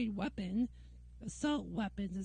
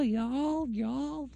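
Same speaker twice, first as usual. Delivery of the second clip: a louder, hammed-up Texan Y'all repeated; mock Texan accent; 2 semitones higher, 7 dB louder than usual. Ranting about the South, a repeated mocking Texan Y'all. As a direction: keep drawling Y'all like a Texan. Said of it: "Y'all talking like a Texan".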